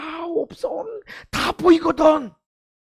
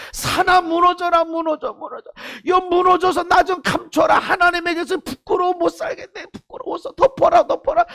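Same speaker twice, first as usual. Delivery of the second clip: desperate plea; 5 semitones higher than usual. Retold or imitated. Shame cries out to collapse.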